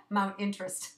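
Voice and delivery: chuckling over the misspoken word Interest; amused repeat of Mount Interest; laughing at own slip. Real, not acted. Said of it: "That's interesting".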